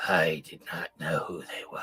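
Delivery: low, hollow voice of the dead; low corpse voice. Acted.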